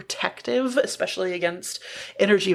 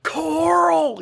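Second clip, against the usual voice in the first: 1 called out name; 7 semitones higher, 4 dB louder than usual. Retold or imitated. Calling out True Blood character.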